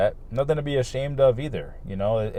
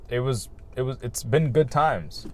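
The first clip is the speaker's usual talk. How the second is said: hiccuping. Real, not acted. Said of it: "Sorry, I'm, like, hiccuping".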